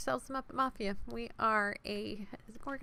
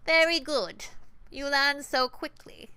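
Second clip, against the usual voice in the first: higher, louder, slow sugary praise; sweet condescension; 6 semitones higher, 6 dB louder, slower than usual. Acted. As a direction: pat the player on the head, slowly. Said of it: "Sweet, nasal, and grinding".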